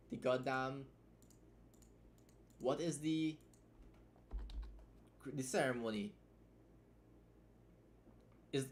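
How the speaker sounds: fed up and ranting; frustrated. Real, not acted. Frustrated rant at ceremony.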